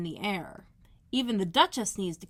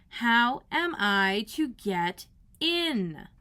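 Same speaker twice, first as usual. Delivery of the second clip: very slow, louder insistence; Alice raising her voice at the footman; 3 semitones higher, 5 dB louder, much slower than usual. Acted. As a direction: say it louder, word by word. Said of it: "asked Alice again in a louder tone".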